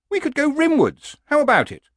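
high horse voice, wheedling; coaxing horse. Acted. Horse urges barbarian to retire somewhere warm, high and coaxing. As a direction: coax the old man, pitched well up.

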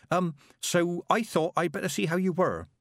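put-on high, hesitant young girl; girl reporting to the witches; nervous girl. A narrator's reading. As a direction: stammer out the news shyly. Nervous Petulia voiced.

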